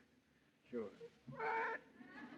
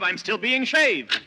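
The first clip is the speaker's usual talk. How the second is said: slow, higher, louder with a laugh; 12 semitones higher, 4 dB louder, slower than usual. Acted. Nick laughing off the clerk's call, higher and louder. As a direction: fake breezy joke to cover up.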